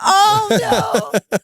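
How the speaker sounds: high, loud drawn-out cry; mock dismay. Real, not acted. Parent hearing about a kid wanting options, loud mock dismay. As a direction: wail it in amused disbelief. Reacting to child's options request.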